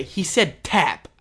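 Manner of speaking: "tap" set apart, slow phrase; slow down and land on "tap"; stress on tap. Real, not acted. Admitting what the uncle actually said, "tap" stressed. Key word set up for the misunderstanding.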